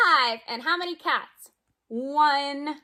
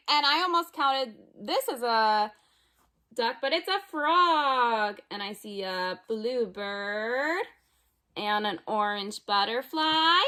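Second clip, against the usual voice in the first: lively storybook read-aloud for little ones; reading to children; slower than usual. Acted. Teacher reading a picture book to kids at home, lively. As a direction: read it like circle time, bright and playful.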